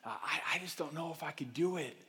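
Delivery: soft, low worried whine; whiny doubting voice. Retold or imitated. Churchgoer dreading the long trip, soft whiny doubt. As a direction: sigh out every excuse. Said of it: "you hear the voice like".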